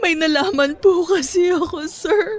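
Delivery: high, tearful voice, weeping through the words. In a skit, someone answers the man they call sir, crying. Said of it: "Eh bakit ka umiiyak?".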